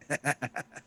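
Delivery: soft, short villain laugh in character; Death laughing. Acted. Game master voices Death in a nightmare, mock chuckle. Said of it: "Death is just laughing. He's like".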